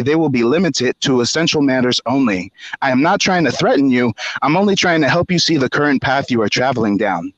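measured, slightly formal read-out; reading an email aloud. Retold or imitated. Reading out a manager's reprimand email, measured read-aloud.

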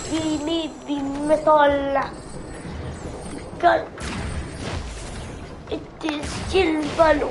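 gruff pirate captain. Acted. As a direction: bark orders like a pirate. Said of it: "I love doing the pirate voice".

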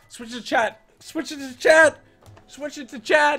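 high, loud insistent yell; loud demand. Real, not acted. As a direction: yell it at your partner. Yelling demand to switch.

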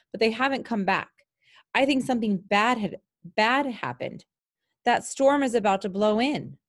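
a hint of a scared kid begging for help; worried boy. Boy Jake pleads with pilot.

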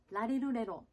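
ラリルレロ with everyday Japanese ラ行 as L; L sounds. Shown as a demonstration. Coach likening English L to Japanese, L-sound ラリルレロ. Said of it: "Lの発音ですね".

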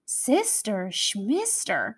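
grimy monster growling at Lucy; growled. Acted. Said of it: "growled a grimy monster".

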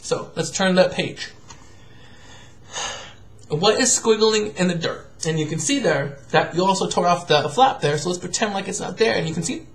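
gentle picture-book reading voice; reading to a child. Acted. Father reading a picture book to his absent daughter, gentle.

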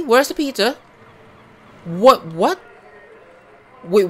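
demanding where the pizza went; outraged disbelief. Real, not acted. Player yelling at the game over the vanished pizza, outraged.

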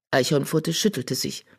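plain reading voice

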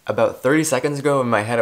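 ordinary talk

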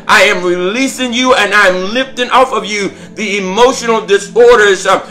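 prophetic preaching. Real, not acted. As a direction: speak the word over them with fire.

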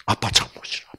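ordinary delivery

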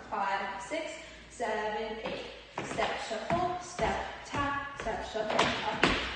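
calling dance counts. Acted. Calls steps while dancing.

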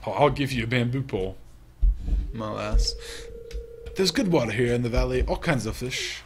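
put-on old sailor voice. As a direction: boom it out like a salty sea dog. Fisherman continues.

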